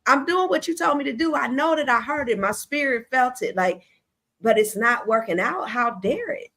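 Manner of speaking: high, pleading mock outrage; exasperated complaint. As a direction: complain to God like you've been wronged. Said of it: "and he like".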